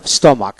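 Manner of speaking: স্টমাক with a K sound for CH; silent H. Shown as a demonstration. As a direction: say স্টমাক with no H at all. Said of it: "এখানে এইচ বাদ যাবে".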